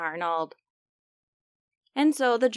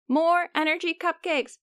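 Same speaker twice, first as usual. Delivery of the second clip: excited cheer; 6 semitones higher than usual. Acted. Germ voices cheer for cupcakes.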